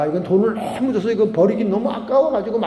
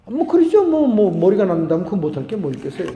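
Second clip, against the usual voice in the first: casual shrug; 4 dB louder than usual. Retold or imitated. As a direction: toss it off like it's nothing. Deacon's casual reply to pastor.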